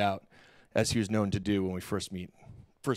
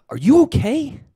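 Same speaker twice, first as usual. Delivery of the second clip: much higher and louder, a careful worried check-in; gentle high call; 13 dB louder, slower than usual. Retold or imitated. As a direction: call out to him, worried and unsure. Approaching man lying on street.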